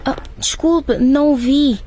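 jump, caught off guard; startled. Acted. Startled by caretaker.

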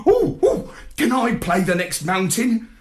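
eager high yap; excited. A narrator's reading. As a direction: bounce with puppy excitement. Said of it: "I yapped excitedly".

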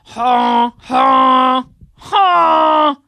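loud braying cry; donkey bray. Acted. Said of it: "screamed with pain ... he brayed".

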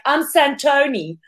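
"Santoni" drawn out slowly with a long "toh"; slow, self-mocking "Santoni"; mispronouncing own name. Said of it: "don't even know how to pronounce my own name".

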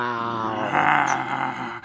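put-on boy's low animal growl. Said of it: "Andrew growled".

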